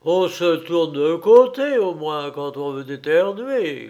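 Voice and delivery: mildly hammed-up grousing; grumbling. A narrator's reading. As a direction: scold the sneezer crossly. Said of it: "grogna-t-il".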